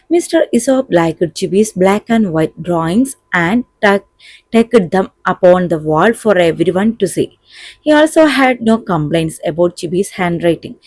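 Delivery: slow, deliberate English reading; measured classroom dictation pace; textbook read-aloud. A narrator's reading. Reads model answer aloud.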